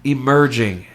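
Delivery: slow, portentous mock-horror intro; mock ominous. Podcast host building up the next segment, mock ominous. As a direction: draw it out with heavy dramatic pauses.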